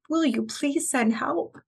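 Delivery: voicing a mother's cry to God, high and slow; emotional plea. Host voicing a mother praying for help, emotional plea. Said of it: "she is crying out to God".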